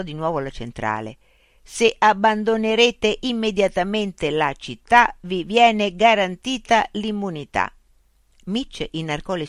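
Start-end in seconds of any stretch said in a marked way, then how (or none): 1.6-7.7 slow, loud mechanical reply; robot policeman. A narrator's reading. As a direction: answer like a machine, high and measured. Robot policeman relays the offer.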